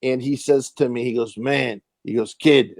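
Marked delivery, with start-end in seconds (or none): 1.4-1.8 Edo Ross. Retold or imitated. Actor addressing a kid at the table read, lightly imitated. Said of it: "that's exactly how he talks". 2.3-2.8 lightly imitated veteran actor; a hint of an older colleague's way of talking; Edo Ross. Actor addressing the newcomer as kid, lightly imitated. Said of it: "that's exactly how he talks".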